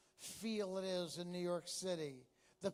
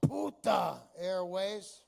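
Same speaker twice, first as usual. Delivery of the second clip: shouted punchline; 5 dB louder, slower than usual. Real, not acted.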